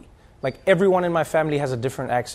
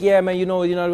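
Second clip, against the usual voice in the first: Haitian New Yorker; 2 semitones higher than usual. Retold or imitated. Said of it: "I hear a little bit of Haiti".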